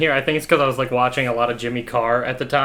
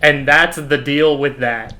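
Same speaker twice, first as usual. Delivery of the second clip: put-on slow, louder echo of the old punchline, laughing; mocking his younger self; 5 dB louder, slower than usual. Man mocking his teenage stand-up line while laughing. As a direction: repeat the line back like a cringing parody of yourself. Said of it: "I'm just doing".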